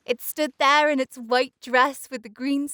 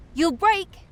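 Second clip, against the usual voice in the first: higher, mocking threat; taunting; 6 semitones higher, 3 dB louder than usual. A narrator's reading. Icy winds taunt the little flower, scornful. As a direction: jeer at the flower, pitched up.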